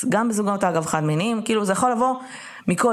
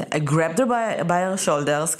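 slow, halting quotation; imitating slow speech; 3 semitones lower, much slower than usual. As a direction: draw out his words with small stumbles. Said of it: "כי הוא מדבר נורא לאט".

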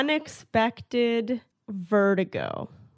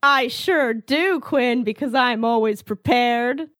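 mock confidence; 3 semitones higher, 4 dB louder, slower than usual. Player who forgot answers the game master, mock confidence. Mock boast of being prepared.

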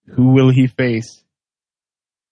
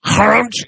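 raised-pitch mock chomp; imitated crunch; 8 semitones higher than usual. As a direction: make a cartoon biting noise. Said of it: "and, and she goes".

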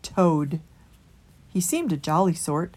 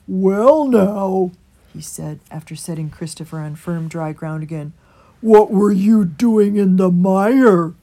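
put-on old rat rescuing Christopher; old water rat; 9 dB louder than usual. A narrator's reading.

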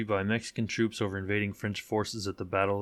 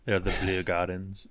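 attempted French accent; 2 semitones lower than usual. Shown as a demonstration. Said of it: "I can't do a French accent".

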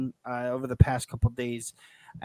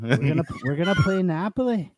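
higher, put-on Scouse accent; Jamie Carragher; 4 semitones higher than usual. Co-host showing what more Scouse sounds like, Scouse accent. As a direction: feel out a Liverpool accent. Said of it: "sound a little more like Jamie Carragher".

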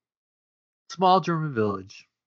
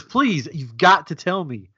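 put-on German accent; 3 semitones higher, 4 dB louder than usual. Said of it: "But he says this in a German accent".

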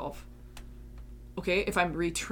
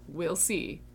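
grudging inner voice. Retold or imitated. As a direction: sound unconvinced, humouring yourself. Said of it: "that was a lot of my inner talk".

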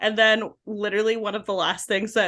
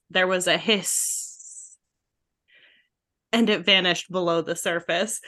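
slow, hushed-suspense audiobook reading, slightly lower; lightly imitated narrator, long pause after the hiss; Jim Dale; 4 semitones lower than usual. Audiobook narrator as the bundle drops into the potion, slow and ominous. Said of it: "Jim Dale is so talented 'cause he's reading it".

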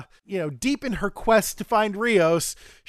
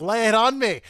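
put-on Scottish accent; 3 semitones higher, 4 dB louder than usual. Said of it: "for this accent?".

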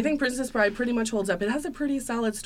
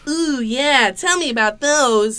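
put-on high, eager little boy, louder; kid voice; 6 semitones higher, 8 dB louder, slower than usual. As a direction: beg like a curious grandson. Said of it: "you're gonna play grandson".

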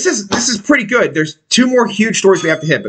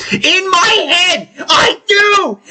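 excited shout; 8 semitones higher, much slower than usual. Real, not acted. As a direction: shout it out, caught and proud. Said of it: "excited admission".

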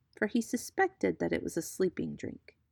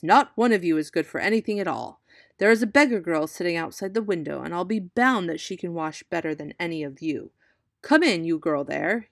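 loud exasperated cry; 5 dB louder than usual. Acted. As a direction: burst out in frustration. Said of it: "cried the prince".

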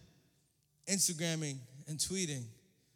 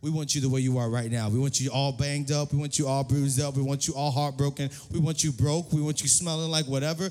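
emphatic welcome; 6 semitones lower, 7 dB louder than usual. Acted. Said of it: "say, say, No, no, no".

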